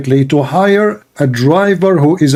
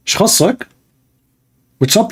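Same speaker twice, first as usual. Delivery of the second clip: higher-pitched imitated Saudi accent; 6 semitones higher than usual. Saudi man answering a stranger's warning, imitated Saudi accent. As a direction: retort in a mock Saudi accent. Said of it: "in Saudi accent".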